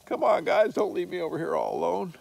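voicing the lonely dog. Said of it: "And Lou is over here".

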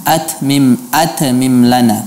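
atmim with a bouncing release on the t; imitating the error, echo after the ta; qalqalah on ta. Shown as a demonstration. Teacher imitates qalqalah on ta. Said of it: "ada qalqalah pada huruf ta".

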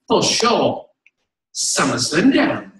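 lightly imitated British assistant; British accent. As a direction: answer slowly with a mock British accent. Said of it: "She's British".

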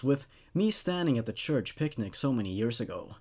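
steady, measured reading of a dark tale; storyteller reading a horror tale aloud; horror story narration. A narrator's reading.

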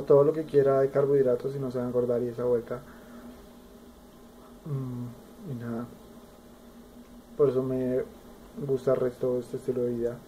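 speaking through fingers; muffled behind hand; hand over mouth. Real, not acted. Seen 0: Small inset speaker keeps hand at mouth throughout; chewing unclear.

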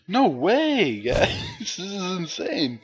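high, laughing no way; incredulous laugh at the game; disbelief. Real, not acted. Gamer in disbelief at being killed.

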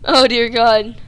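loud exclamation. Real, not acted. After crash, still loud.

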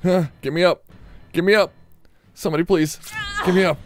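mock pleading. Downed player begging teammates to revive him, hammed-up pleading. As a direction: overplay being helpless on the ground.

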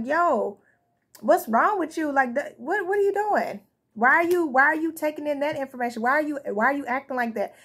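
lightly acted exasperated questioning; mildly incredulous, pitch jumping on questions; mock confrontation. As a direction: imitate someone calling a person out. Acts out somebody confronting the person.

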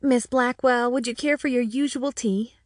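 lightly voiced formal waitress; waitress mode. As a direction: put on the proper service voice for the customer. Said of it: "went into full waitress mode".

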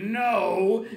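loud, high, drawn-out refusal; emphatic acted holler; arguing father. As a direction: shout back stubbornly. Father in escalating yelling argument.

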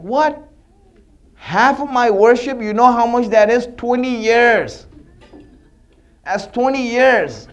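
shocked protest at the price; outraged disbelief. Acted. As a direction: balk at a ridiculous price.

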